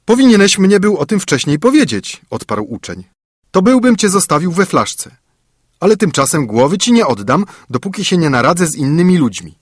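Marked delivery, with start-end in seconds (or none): 0.0-2.2 high, louder student voice; bold student. A narrator's reading. Student answering the giant's threat, bold and high. 3.5-9.6 high, louder student voice; bold student. A narrator's reading. Student answering the giant's threat, bold and high.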